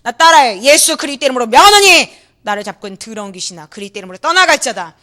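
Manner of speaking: loud commanding rebuke; preacher casting out a demon, loud and stern; exorcism command. Retold or imitated. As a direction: order the spirit out with force.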